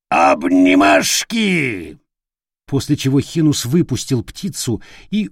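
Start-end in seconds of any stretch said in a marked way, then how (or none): 0.1-2.0 low, very slow bellowing squawk; parrot yell. Acted. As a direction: drag it out like a loud bird. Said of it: "пока попугай не завопил". (громкий протяжный вопль попугая)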